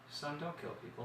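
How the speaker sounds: imitating a father's understated warning; quietly level, deadpan fatherly advice; deadpan monotone. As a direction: say it softly, with no drama. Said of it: "You have his facial expressions and his monotone".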